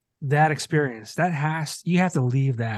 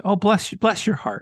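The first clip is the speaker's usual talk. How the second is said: higher-pitched, pitying coo; lightly put-on sweet pity; mock sympathy; 7 semitones higher than usual. Guest wishes mean people the best, host teases with mock sympathy. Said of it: "don't even say it ironically".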